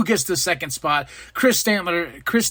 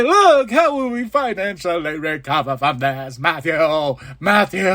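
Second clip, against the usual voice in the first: mock Bucks whining. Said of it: "They're like".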